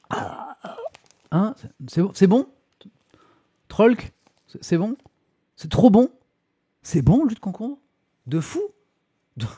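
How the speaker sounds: can't believe chat likes cucumber juice; surprised. Real, not acted.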